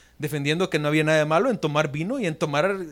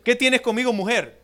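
formal, distancing address; 5 semitones higher than usual. Retold or imitated. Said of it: "era una forma respetuosa".

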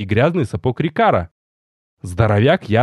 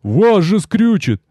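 higher, louder, slow warning; alarmed roar; 7 semitones higher, 3 dB louder, slower than usual. Acted. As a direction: plead in fear for the master. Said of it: "взревел Рикар раненым зверем".

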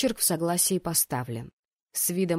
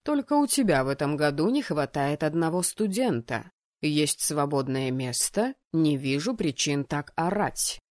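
lower, unhurried reply; calm, deeper male role; calm rector; 4 semitones lower than usual. Acted. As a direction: answer an outburst with low composure. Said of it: "спокойно ответил ректор".

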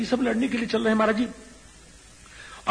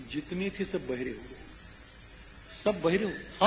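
soft, low aside with pauses; hushed confiding; 3 semitones lower, 8 dB quieter than usual. Real, not acted. Preacher confides the enemies' fate to listeners, hushed and low.

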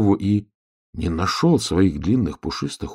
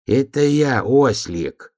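raised, drawn-out announcement; donkey calling out; 7 semitones higher, 4 dB louder, much slower than usual. A narrator's reading. Donkey at bear cub's window, calling out. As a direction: call through a door. Donkey calls through the door.

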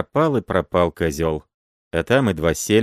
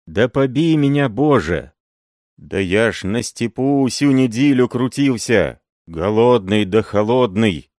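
loud, high protesting peasant voice; indignant old peasant; 4 semitones higher, 5 dB louder than usual. A narrator's reading. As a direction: swear your innocence loudly. Uncle Andrey denies theft, swears.

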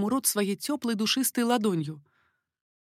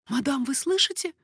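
higher, mildly frightened question; a touch of alarm in a raised voice; frightened maid; 7 semitones higher than usual. A narrator's reading. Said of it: "испуганно спросила Жиона".

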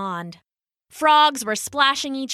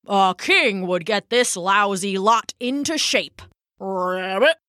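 croaking bullfrog. Acted. Old bullfrog character voice.

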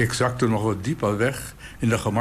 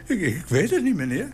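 flustered, higher stammer with a nervous laugh; 6 semitones higher than usual. Retold or imitated. Shy girl put on the spot by the old man, stammering. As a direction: stumble over the words, caught off guard. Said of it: "stamelde ze".

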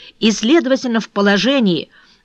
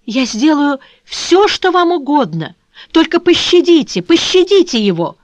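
desperate pleading; 7 semitones higher, 5 dB louder than usual. A narrator's reading. Captive girl begs for fiancé.

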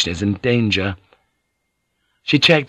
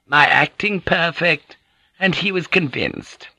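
lightly voiced Gyoko, swooping higher; indignant Gyoko; 5 semitones higher than usual. Gyoko telling the lady how she lied for her, mildly indignant. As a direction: hammer home the denial as Gyoko, pitched up.

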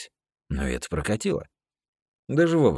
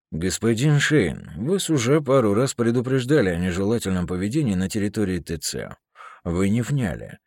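formal, louder official warning; stern officer; 3 semitones higher, 5 dB louder than usual. Acted. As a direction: read him the charges coolly. Smith formally charges Shane.

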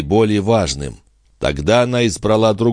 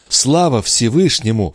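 queen's exclamation; 5 semitones higher than usual. A narrator's reading. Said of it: "вскричала она".

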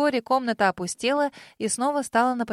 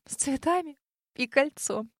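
dreamy; 4 semitones higher than usual. A narrator's reading. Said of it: "мечтательно выдохнула".

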